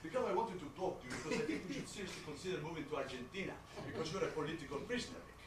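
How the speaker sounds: lightly voiced accented father; a hint of an insistent dad. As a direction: play a father lecturing on the phone. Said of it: "This is your father".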